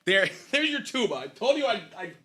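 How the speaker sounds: excited. Real, not acted. Triumph after playing the tune.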